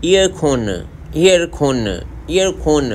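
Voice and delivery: ईयर खोन said as eer khon with an aspirated kh, repeated; Korean accent. Shown as a demonstration. Teacher drilling Korean for air conditioner, Korean accent. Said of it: "air conditioner को air कॉन कहते".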